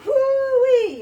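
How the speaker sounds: loud, high whoop of joy; excited whoop. Real, not acted. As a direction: cheer it out at the top of your lungs. Hyped mid-workout cheer.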